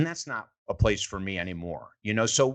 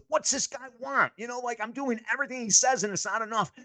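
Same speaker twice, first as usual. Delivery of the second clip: higher, aggrieved complaint; Charles exasperated; 12 semitones higher than usual. Retold or imitated. Charles frustrated at his mentor, aggrieved higher voice. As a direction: whine like an upset young player. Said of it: "He said".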